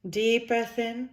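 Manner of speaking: slow, drawn-out words riding on the breath; breathing guidance. Shown as a demonstration. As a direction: stretch each cue to the length of a breath. Leading three deep breaths by example.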